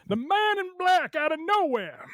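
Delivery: high excited wrestling commentator call; Jim Ross. Acted. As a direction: call it like a ringside announcer. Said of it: "in the voice of, of Jim Ross".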